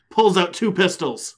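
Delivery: loud, high, drawn-out action climax; dramatic narration. A narrator's reading. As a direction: announce it like a big action reveal. Dramatic climax of comic recap.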